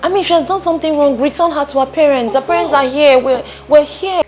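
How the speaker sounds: loud, heated yelling. Acted. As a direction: push it out, agitated. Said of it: "I don't know why you're yelling".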